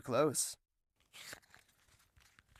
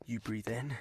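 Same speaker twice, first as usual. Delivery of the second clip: whispered; 4 semitones lower than usual. Acted. Breathing exercise recalled.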